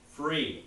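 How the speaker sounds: Free set apart as its own word, said firmly; emphasized word. Real, not acted. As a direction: lean on Free to make the point. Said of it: "I emphasize that word free".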